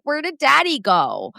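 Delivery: lightly voiced whiny dog asking after its owner; clingy poodle's voice. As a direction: voice a needy dog missing its dad. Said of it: "So now he's like".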